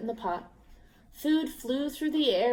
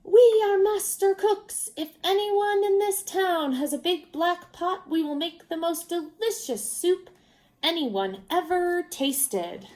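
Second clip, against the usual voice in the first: shouting to the town; 8 semitones higher, 4 dB louder than usual. A narrator's reading. Travelers on the well calling to the village, loud and grand. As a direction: call it out from the well like a showman. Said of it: "climbed up on the edge of the well and shouted".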